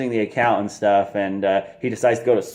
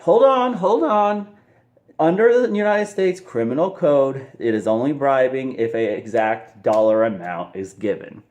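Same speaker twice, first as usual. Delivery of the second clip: much higher, quick protesting hold on; hasty Belfort; 4 semitones higher than usual. Retold or imitated. Belfort backpedaling to the FBI agent, high and hurried. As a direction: scramble to backpedal, pitch way up. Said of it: "And he's all like".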